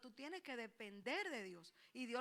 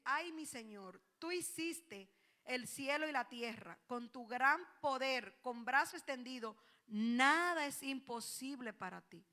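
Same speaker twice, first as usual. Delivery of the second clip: slow, earnest prayer to God; unhurried, reverent plea; 2 semitones lower, slower than usual. Retold or imitated. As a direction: pray it slowly, drawing out the words. Voiced prayer, slowed.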